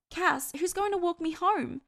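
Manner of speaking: high-pitched female character calling out; calling after him. A narrator's reading. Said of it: "she called".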